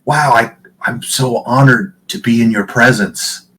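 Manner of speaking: high, loud fawning; mock flattery. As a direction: gush with fake awe. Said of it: "tilts his head forward ... and goes".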